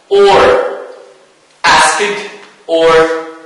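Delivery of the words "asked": ASKED with final -ed as D; final-ed option. Shown as a demonstration. Teacher quizzing students on the verb, option with D. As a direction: say ASKED as askd, voiced ending. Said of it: "pronounce it".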